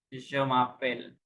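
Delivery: slow, drawn-out French demonstration; slow modelling. Shown as a demonstration. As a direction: stretch each syllable for a learner. Teacher models phrase for student. (ধীরে টেনে উচ্চারণ করে শেখানো)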